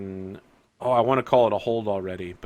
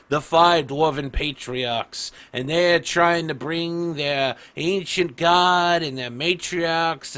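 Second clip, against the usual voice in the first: dwarf patriarch's speech, building louder and higher; Orefather; 4 semitones higher, 4 dB louder than usual. Acted. Orefather ordering Brusque to take out the priest, patriarch's tirade. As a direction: lay down the order, swelling into a tirade. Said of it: "the Orefather's just like".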